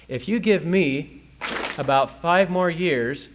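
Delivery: slow emphatic quote. Retold or imitated. Reading Bochco's boast aloud.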